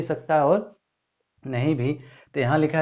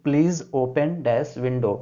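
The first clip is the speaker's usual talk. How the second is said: "Please open dash window" read slowly; teacher dictating the blank; much slower than usual. Shown as a demonstration. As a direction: read the exercise line with the gap spoken as "dash". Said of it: "understand what will be here".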